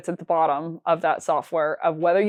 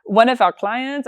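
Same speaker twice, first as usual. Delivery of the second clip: slow, mock French accent, pitched a bit higher; 3 semitones higher, 3 dB louder, slower than usual. French colleague telling Beck about a client, slow French accent. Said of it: "stop with the French accent".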